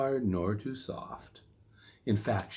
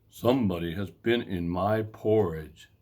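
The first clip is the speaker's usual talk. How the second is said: Papa Bear; 3 dB louder than usual. Acted. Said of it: "said Papa Bear".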